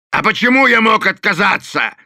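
Delaney barks at Thorn; barked. A narrator's reading. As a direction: snap the question back angrily. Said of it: "рявкнул Делани".

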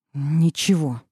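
a curt, clipped-off Ничего; through the teeth. A narrator's reading. Heroine curtly brushing off her worried friend, through the teeth. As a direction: bite off the word Ничего. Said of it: "процедила я".

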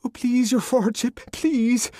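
high, loud, grovelling plea; abject begging. A narrator's reading. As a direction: throw himself on the master's mercy. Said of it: "in a paroxysm of abjection".

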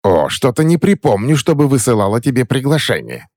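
put-on shrill high indignant old woman; trembling with indignation, voice up high; indignant crone. Crone scolding the uninvited boy, indignant and high. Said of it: "затряслась от негодования".

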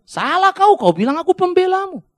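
loud, high scolding rebuke; Tuhan. Acted. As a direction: rebuke a false claimant at full voice. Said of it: "Tuhan bingung".

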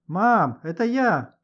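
громкий оклик выше обычного; крикни маме из прихожей; крик с порога. A narrator's reading. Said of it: "крикнул он с порога". (мальчик кричит маме с порога)

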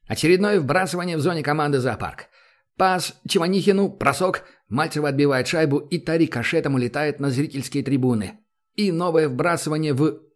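brisk sports play-by-play; hockey commentary. Acted. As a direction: call the game like a TV commentator. Hockey commentator calling the match.

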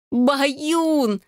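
high ringing cry of joy; overjoyed squeal at the sight of her cat; joyful shriek. A narrator's reading. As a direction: squeal the name out in delight. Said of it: "заголосила я на ультразвуке".

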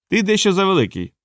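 lightly voiced nervous dwarf; unsure. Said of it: "невпевнено сказав він".

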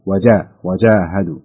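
وجاهدوا slowly, with a hard "j"; firm jīm. Shown as a demonstration. Teacher correcting student, slow firm وجاهدوا. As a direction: stop the ج of وجاهدوا firmly, then lengthen "ā". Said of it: "فاجعلها وجاهدوا".

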